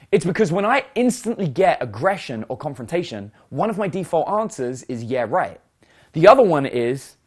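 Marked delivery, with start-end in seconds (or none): 5.0-5.6 low dismissive sarcasm; sarcastic. Shown as a demonstration. Default answer to aggression or confrontation, sarcastic. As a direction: show a stock sarcastic comeback. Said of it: "I've responded with sarcasm".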